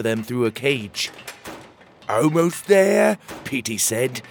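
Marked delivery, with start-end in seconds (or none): 2.1-3.2 out of breath. Acted. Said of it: "He was huffing and puffing".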